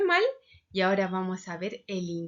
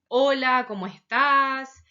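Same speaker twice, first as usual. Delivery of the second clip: casual friendly greeting; 7 dB louder, slower than usual. Shown as a demonstration. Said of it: "utilizamos la palabra tú".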